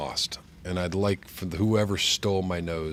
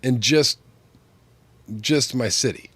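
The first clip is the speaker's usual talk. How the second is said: pinching nose; 5 semitones higher, 6 dB louder than usual. Real, not acted. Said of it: "It sounds like somebody's pinching my nose".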